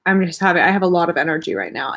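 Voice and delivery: wired and fast, caffeine buzz; too much caffeine. Real, not acted. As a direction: rattle it off over-caffeinated. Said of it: "hopped up on caffeine".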